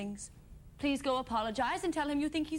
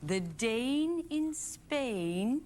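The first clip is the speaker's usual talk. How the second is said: slow; much slower than usual. Shown as a demonstration.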